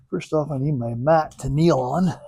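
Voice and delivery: breathless from the work; huffing and puffing between words; out of breath. Real, not acted. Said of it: "huffing and puffing".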